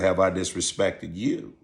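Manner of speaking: softly retold challenge to a pupil; calm, authoritative. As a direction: ask it quietly, with restrained authority. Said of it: "talked to him in a real calm voice".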